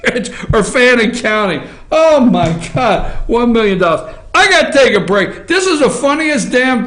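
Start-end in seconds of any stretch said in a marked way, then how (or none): 0.0-4.2 laughing. Real, not acted. Laughs at million-dollar claim.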